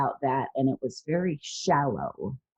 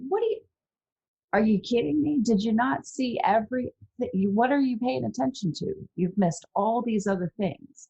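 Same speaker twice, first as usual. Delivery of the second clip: higher-pitched, exasperated disbelief; incredulous protest; 8 semitones higher than usual. Acted. Unheard person answering those who blame them, incredulous protest. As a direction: act out being baffled they missed it all. Acting out incredulous reply to dismissers.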